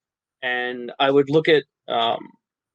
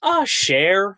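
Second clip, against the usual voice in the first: mock bad New Orleans accent, pitched higher; botched New Orleans accent; 6 semitones higher than usual. Mimicking movie actors' catchphrase, badly faked New Orleans accent. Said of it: "all of the actors in the movie are just going".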